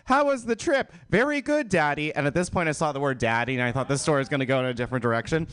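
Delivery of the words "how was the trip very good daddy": reading a fable. Acted. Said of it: "the father asked his son".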